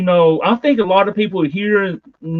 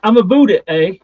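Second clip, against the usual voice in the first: mock Canadian accent; 3 semitones higher than usual. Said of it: "my Canadian accent".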